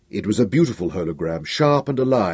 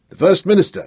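choked, strained words, higher and louder; forcing it out through a tight throat; almost strangled; 9 semitones higher, 4 dB louder than usual. A narrator's reading. Emperor to aides, almost strangled. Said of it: "in an almost strangled voice".

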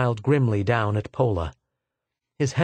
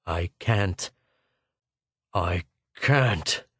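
exhausted despair; 6 semitones lower, much slower than usual. Acted. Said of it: "Schwartz shook his head".

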